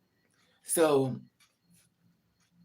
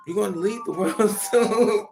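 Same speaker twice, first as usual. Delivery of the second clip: high, loud wail breaking into laughter; mock crying; 6 semitones higher, 6 dB louder than usual. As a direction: imitate tearful wailing while trying not to laugh. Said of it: "I would start crying".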